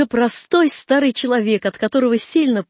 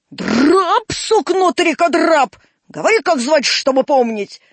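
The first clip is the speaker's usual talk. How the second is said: raised, high irritated voice; scornful scolding; 5 semitones higher, 3 dB louder than usual. Acted. Old man interrogates Драп about his name, scornful scolding. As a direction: throw the nickname back in scorn.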